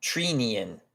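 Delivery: Treenian said TREE-nee-an, falling at the end; tentative try at Treenian with a long "ee"; mispronounced name. Real, not acted. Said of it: "I don't know how to pronounce his name".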